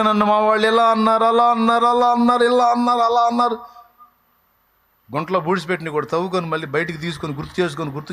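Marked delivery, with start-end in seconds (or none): 0.0-3.6 higher, whining sing-song grievance; mock whiny complainer. Oversensitive believer whining about relatives, higher mock whine. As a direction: whimper out the complaints like a sulking child. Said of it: "ఊరికి ఏడుస్తూ ఉంటారు".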